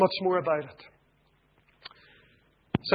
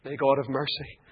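quiet earnest appeal; 4 semitones lower, 12 dB quieter than usual. Acted. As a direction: plead gently with the unsaved. Closing altar call to listeners.

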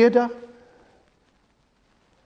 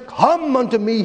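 preacher's raised-pitch calling invitation; crying out; 4 semitones higher than usual. Retold or imitated. Preacher voicing Christ to the privileged cities, crying out. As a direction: call it out as a preacher quoting Christ. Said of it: "He cries out to them".

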